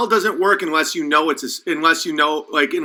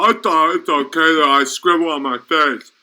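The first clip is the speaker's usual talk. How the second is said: mock dupe. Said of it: "and you go".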